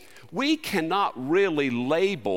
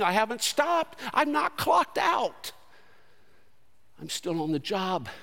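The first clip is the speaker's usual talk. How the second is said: emphatic high divine voice; God's voice; 8 semitones higher than usual. Acted. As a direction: proclaim like God insisting. Voicing God, emphatic.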